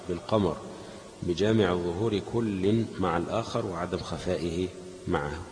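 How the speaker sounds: measured classical Arabic read-aloud; deliberate, fully voweled recital of a text; formal reading aloud. Acted. Reads lesson text aloud.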